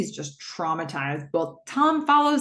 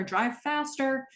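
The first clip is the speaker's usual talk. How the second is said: slow, menacing command, drawn out; menacing order; 7 semitones higher, 4 dB quieter, slower than usual. Retold or imitated. Retelling the kidnapper forcing Tom to speed, slow menacing command. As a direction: lean on him, slow and threatening. Kidnapper threatens driver with knife.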